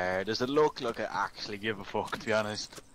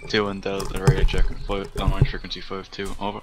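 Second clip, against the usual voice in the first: over walkie talkie; 6 dB louder, faster than usual. Real, not acted. Radio check call on frequency.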